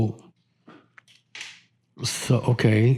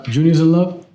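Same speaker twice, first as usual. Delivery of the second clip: repeated louder so he can hear; 4 semitones higher, 4 dB louder than usual. Real, not acted. Friend repeating a question that wasn't heard, louder. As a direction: say it again, pushing it across.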